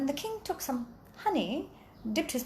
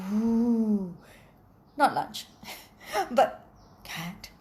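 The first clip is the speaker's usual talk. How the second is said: dog's glee; much slower than usual. Acted. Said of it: "was like".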